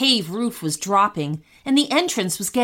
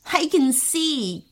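slow, higher, through a grin; grinning; 6 semitones higher, slower than usual. A narrator's reading. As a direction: say it with an audible grin, drawn out. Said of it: "grinned Keon".

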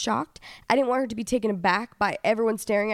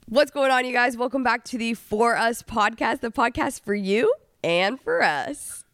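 podcast host impression. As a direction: play your partner opening the show, mildly. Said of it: "Do your best impersonation".

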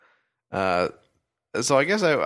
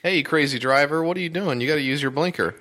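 dad stuck in traffic; 6 semitones higher than usual. Acted. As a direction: yell at the driver ahead. Acted angry driver in traffic.

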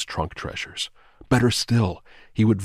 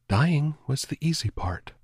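murmur; 8 semitones higher than usual. A narrator's reading. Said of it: "she murmured".

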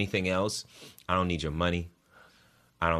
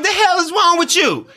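retold outburst; 14 dB louder than usual. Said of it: "I'm like".

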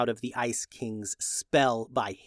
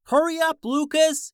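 high, loud desperate yell; urgent yell; 13 semitones higher, 4 dB louder than usual. A narrator's reading. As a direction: yell for him to hurry. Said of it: "yelled Julian".

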